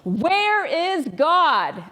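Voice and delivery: put-on the preacher pressing the silent boy, booming. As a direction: drag out each word like a towering preacher. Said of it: "this big man with this booming voice".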